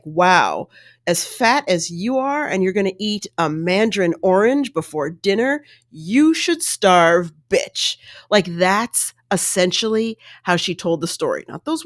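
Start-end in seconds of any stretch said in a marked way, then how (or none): 0.0-8.0 mock sneering husband. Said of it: "looking at her like".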